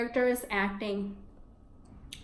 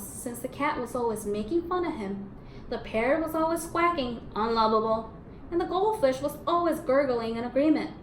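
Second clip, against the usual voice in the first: reading a picture book to the class; story reading. A narrator's reading. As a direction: tell the story to the children. Teacher reads picture book aloud.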